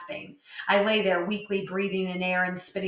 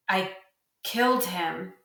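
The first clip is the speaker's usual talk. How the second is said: said slowly; slower than usual. A narrator's reading. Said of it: "he said slowly".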